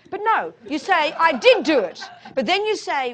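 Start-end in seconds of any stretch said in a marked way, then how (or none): 1.1-2.0 "did" punched high and loud; emphatic admission. Acted. Teacher modelling owning up, loud stress on "did". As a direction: own up boldly, leaning hard on "did".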